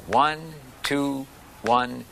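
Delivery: counting in and chanting the strokes in tempo; calling out the rhythm. Shown as a demonstration. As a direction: call the pattern for the class to play along. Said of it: "I'll call it out so you".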